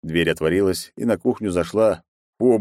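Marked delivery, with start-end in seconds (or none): none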